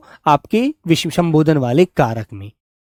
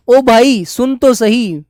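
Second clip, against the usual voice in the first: mildly acted call, higher and drawn out; calling for attention; 4 semitones higher, slower than usual. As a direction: call slowly to someone not listening. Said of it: "और वो सुन नहीं रहा है". (न सुनने वाले को हल्के अभिनय में पुकारना)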